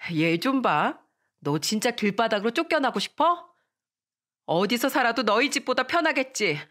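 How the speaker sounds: put-on angry girl quarrel.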